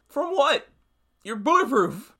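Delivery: high, sharp disbelieving jab; incredulous question. Real, not acted. Scoffing at the self-defense claim with a high incredulous question.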